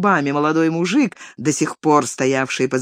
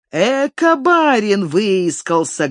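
higher, loud bawl; 6 semitones higher, 3 dB louder, slower than usual. A narrator's reading. Garaska bawling at the crowd. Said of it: "горланил Гараська".

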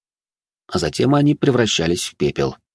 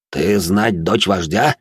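slow, surprised alien question; much slower than usual. Acted. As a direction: ask slowly, taken aback. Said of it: "послышались нотки удивления".

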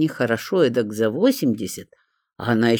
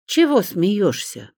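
suspicious; 7 semitones higher, slower than usual. A narrator's reading. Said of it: "подозрительно покосилась".

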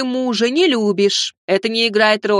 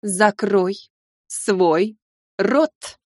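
hissed through teeth; 2 semitones lower, much slower than usual. A narrator's reading. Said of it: "процедила бабушка".

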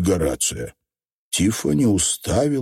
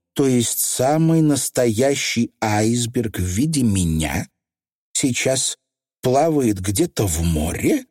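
horrified; 4 semitones higher, slower than usual. Acted. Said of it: "с ужасом спросила Тиффани".

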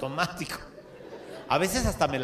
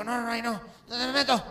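panicking vampire; 6 semitones higher than usual. Acted.

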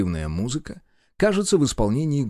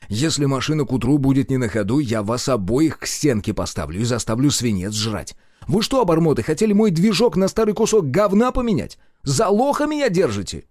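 louder, higher furious threat; enraged; 3 semitones higher, 3 dB louder than usual. Acted. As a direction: scream it in their faces. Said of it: "рассвирепел я". (в ярости)

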